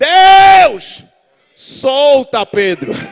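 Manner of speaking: loud cry, slowing on "solta".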